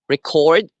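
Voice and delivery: "record" as re-CORD, weight on the last syllable; stress on second syllable. Shown as a demonstration. Teacher naming the verb, second-syllable stress on "record". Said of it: "the stress is in the second syllable".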